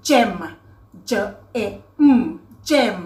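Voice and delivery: "gem" whole, then juh, eh, mm, then whole; sounding out. Shown as a demonstration. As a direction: break "gem" into separate sounds with pauses, then blend it. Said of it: "อย่างเช่น".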